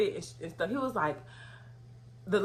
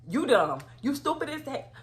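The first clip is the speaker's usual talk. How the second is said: going off; 7 semitones higher than usual. Retold or imitated. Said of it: "just going off".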